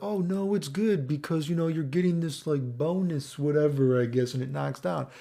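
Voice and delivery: imitating defenders of the game. Streamer mimicking players defending wall breaks, mock protest. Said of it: "people are like".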